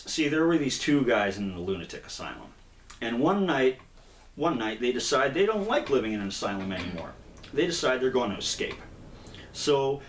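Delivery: lightly performed storyteller telling a joke; animated, deliberate setup of a joke; joke storytelling. Acted. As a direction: build the tale with lively emphasis. Tells the Joker's joke as story.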